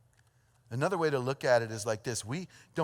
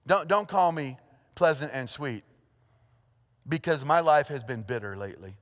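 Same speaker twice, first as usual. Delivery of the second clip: Naomi. Acted. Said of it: "Naomi says something like this".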